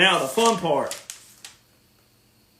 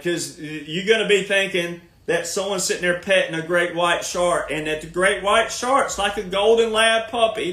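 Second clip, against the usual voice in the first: ordinary delivery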